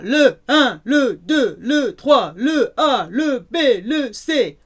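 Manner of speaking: loud golfers calling out the letters; shouting out. Pretend. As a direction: bellow them like rowdy men round a tree. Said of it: "shouting out".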